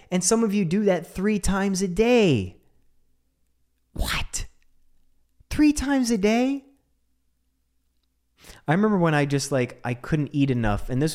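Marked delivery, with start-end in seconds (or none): 3.9-4.4 breathless mock-stunned whisper; whispered what. Mock amazement at three meals. 5.5-6.6 high, slow, mock-astonished rise; incredulous question. Mock amazement at three meals.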